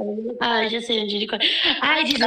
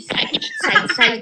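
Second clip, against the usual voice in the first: scared squeal; 8 semitones higher than usual. Real, not acted. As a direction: shriek it in panic, high-pitched. Scared, shooing another player.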